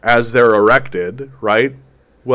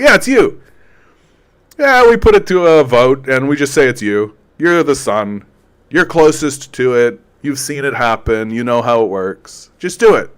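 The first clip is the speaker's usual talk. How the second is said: pushy lords; 4 dB louder than usual. Retold or imitated. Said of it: "They're like".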